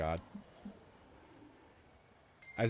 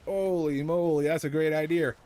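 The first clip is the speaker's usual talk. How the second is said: put-on playful southern-tinged accent; a little southern; 6 semitones higher, 5 dB louder than usual. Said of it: "That was a little southern".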